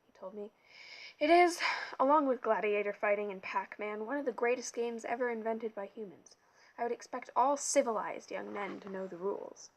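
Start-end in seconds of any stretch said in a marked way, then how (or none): 1.2-9.7 put-on loud, pompous lecture to a boy; pompous camp director. A narrator's reading. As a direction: boom it out like a vain boss.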